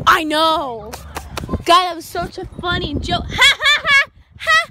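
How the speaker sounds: laughing through the words; a real laugh. Real, not acted. Laughing at a joke.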